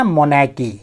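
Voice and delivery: मोनार्की said "mo-NAA-kee" with no rolled R; मोनार्की, R left out, ch as k; silent R. Shown as a demonstration. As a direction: say मोनार्की dropping the R before the k. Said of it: "ये आर पूरा उच्चारित मत कीजिएगा".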